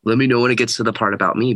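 quick, rising, mock-demanding "me"; hammed-up entitled voice ending up on "me"; mock entitled whine. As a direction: poke fun at a self-centered kid asking for attention. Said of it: "those entitled little shining stars in my life".

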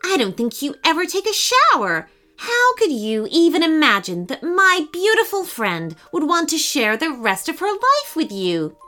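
scornful. Acted. Friend scorns the hippo.

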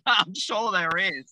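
slow, laughing through the words; laughing along at the joke about himself. Real, not acted. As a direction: chuckle it out, amused. Laughs at bald-men joke.

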